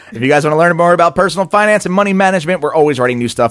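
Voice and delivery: fast booming announcer read. Pretend. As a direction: announce it like over the stadium speakers. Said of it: "That's my P A voice".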